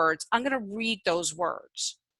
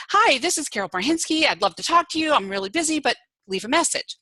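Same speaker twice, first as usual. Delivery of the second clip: brisk, higher imitation of a busy caller; fast voicemail greeting; 5 semitones higher, faster than usual. Imitating Carol's quick busy voicemail greeting, a bit higher. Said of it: "she spoke really fast".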